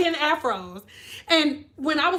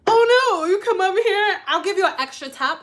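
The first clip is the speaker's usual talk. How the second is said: put-on coaxing old lady; 3 semitones higher than usual. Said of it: "they would be like".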